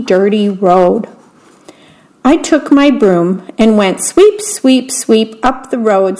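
put-on reading a picture book aloud to children; story narration. A narrator's reading. Volunteer reader telling children a bedtime story, gentle narration.

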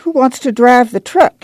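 put-on high, spiteful old grandma. A narrator's reading. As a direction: needle with a touch of spite. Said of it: "she said spitefully".

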